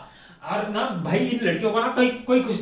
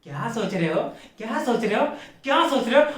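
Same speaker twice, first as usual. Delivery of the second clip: imitated girlfriend pestering, rising each time; mock nagging that builds; mock repeated pestering. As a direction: ask on a loop, more insistent each time. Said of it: "तो घड़ी-घड़ी आके पूछेगी".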